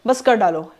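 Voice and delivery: lightly acted enthusiastic go-ahead; highly optimistic approval. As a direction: cheer the child on as an approving parent. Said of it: "highly optimistic था".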